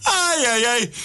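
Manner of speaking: ayes agudos entre carcajadas; riendo de verdad. Real, not acted. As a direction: se le escapa la risa en cada ay. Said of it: "me hace reír". (ay, ay, ay riendo a carcajadas)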